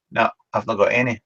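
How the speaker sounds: normal talking voice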